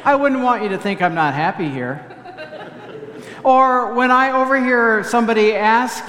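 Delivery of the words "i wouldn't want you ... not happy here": quick, dry, downplayed; Minnesotan understatement. Shown as a demonstration. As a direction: say it like a reserved Minnesotan. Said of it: "I should say".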